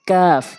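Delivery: কাফ with k just ahead of the tongue root; light Arabic কাফ; forward light K. Shown as a demonstration. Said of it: "জিহ্বার গোড়া হতে একটু আগে".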